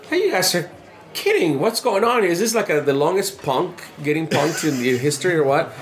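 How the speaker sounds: high-pitched mock incredulity; exasperated disbelief. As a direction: protest as if being pranked, pitched well up. Acts out disbelief at repeated question.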